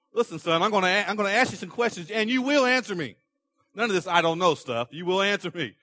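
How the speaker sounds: a dad laying down the law to his son; stern father. Acted. Paraphrasing God as stern father.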